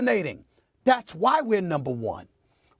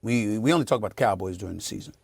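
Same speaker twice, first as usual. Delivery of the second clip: mocking critics; 12 semitones lower, 4 dB quieter, faster than usual. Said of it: "people acting like".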